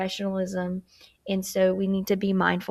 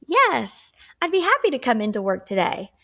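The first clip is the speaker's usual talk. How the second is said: bright, louder, quicker yes; eager yes, higher and louder; positive and confident; 3 semitones higher, 4 dB louder than usual. Shown as a demonstration. Teacher demos an eager reply to the boss. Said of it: "You sound positive and confident".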